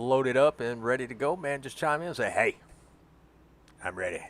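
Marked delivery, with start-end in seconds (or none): 2.3-4.2 creepy voice, much lower pitch. Showing a friend how not to chime in once the thing loads: creepy voice. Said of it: "Don't say it like that. That's creepy".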